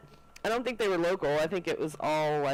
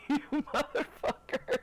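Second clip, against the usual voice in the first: mock pissed-off curse; 10 semitones higher than usual. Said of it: "He was really pissed".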